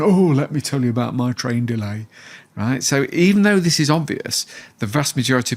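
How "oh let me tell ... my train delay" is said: weary moaning. Retold or imitated. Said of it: "rolling your eyes, going".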